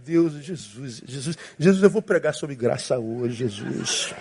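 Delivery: slow, low, soft plea; preacher praying in traffic for self-control; pleading prayer. Retold or imitated. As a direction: beg Jesus for patience, slowly and softly. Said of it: "Eu falei".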